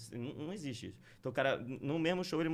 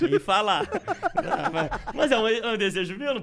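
laughing; 11 semitones higher, 7 dB louder than usual. Real, not acted. Laughing at own dark joke.

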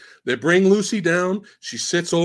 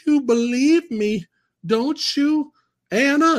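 put-on lightly higher, pleading girl's voice; young Lucy; 9 semitones higher than usual. Young Lucy asking Anna in the flashback, lightly higher pleading. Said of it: "And she goes".

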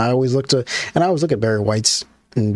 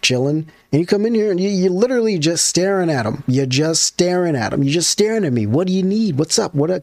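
higher, exasperated questions; mock confused kid; 5 semitones higher than usual. Kid to parent in his room, exasperated. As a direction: push back at the staring parent. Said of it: "I'm like".

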